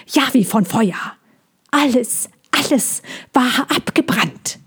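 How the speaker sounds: the bird mourning the burned land; grieving bird. Acted. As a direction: repeat the loss like a dirge. Bird repeats the lament.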